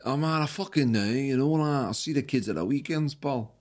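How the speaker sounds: put-on Scottish accent. Shown as a demonstration. Host attempting Scottish on request, Scottish accent. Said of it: "what about Scottish?".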